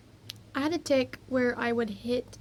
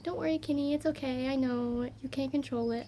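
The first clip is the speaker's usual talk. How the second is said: comforting little sister; 2 semitones higher than usual. Retold or imitated. Little sister tells Kenny it's okay, gently imitated reassurance. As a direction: imitate a kid gently consoling, slightly raised pitch.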